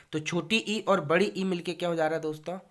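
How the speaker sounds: ordinary talk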